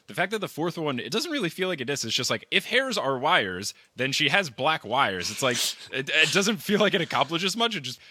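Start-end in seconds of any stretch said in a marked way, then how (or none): 2.5-5.3 mock recital. Mocking the poem's line.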